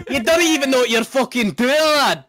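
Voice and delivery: indignant fake Irish accent; mock Irish. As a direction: tell them off in a high stage-Irish brogue. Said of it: "speaking Irish".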